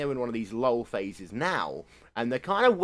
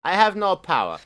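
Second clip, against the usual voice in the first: raised, louder mock team-radio complaint; Audi driver impression; 5 semitones higher, 5 dB louder than usual. Mimicking the Audi moment on the radio, mock complaint. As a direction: imitate a powerless driver complaining, louder and higher. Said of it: "this is what we got from Audi".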